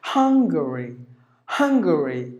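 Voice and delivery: "Hungary" as HUNG-guh-ree; careful model of "Hungary", front-stressed; stress on first syllable. Shown as a demonstration. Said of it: "give the stress for the first syllable".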